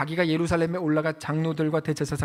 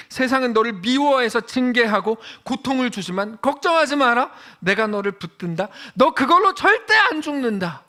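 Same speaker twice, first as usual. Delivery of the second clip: fiery preaching; 5 semitones higher, 6 dB louder than usual. Acted. Voicing God's reassurance, preaching hard.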